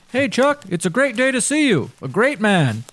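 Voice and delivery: friendly pie seller. Acted. Pie seller calls out compliments.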